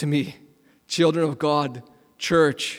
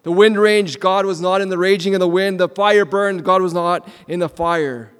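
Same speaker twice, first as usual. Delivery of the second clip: rising proclamation; 3 semitones higher, 5 dB louder than usual. Shown as a demonstration. Preacher building the recap of wind and fire, loud. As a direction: build each phrase with force.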